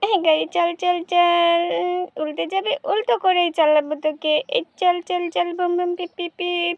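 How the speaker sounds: put-on little girl making car noises as she plays; a lightly voiced little girl at play. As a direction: play the child revving her toy car.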